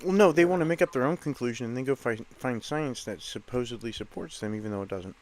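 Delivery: talking while crunching food; words around a mouthful of chips. Real, not acted. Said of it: "I'm eating, so I apologize for the crunching".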